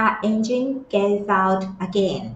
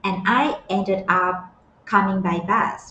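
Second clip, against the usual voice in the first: very slow, each word stretched; slow model reading; much slower than usual. Shown as a demonstration. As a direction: lay out the phrase slowly. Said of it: "teacher models the clip line".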